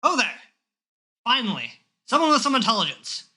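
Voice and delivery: put-on old man finally finds a smart one; relieved old man. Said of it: "and he goes".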